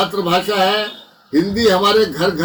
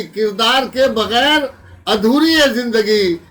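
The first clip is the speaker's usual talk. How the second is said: emphatic, measured mushaira declamation; ghazal recitation. Acted. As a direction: recite the couplet out to the hall. Recites ghazal couplet to audience.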